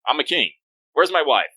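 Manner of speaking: lightly voiced self-satisfied king; a hint of royal self-regard; proud king. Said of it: "he's a very proud individual".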